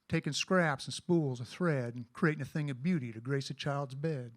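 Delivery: cowboy poem recitation; cowboy poetry. Acted.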